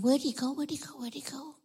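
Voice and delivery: bewildered question trailing off into quiet; fading bewildered searching. Acted. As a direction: repeat it, fading away softly. Acting disciples searching the sky.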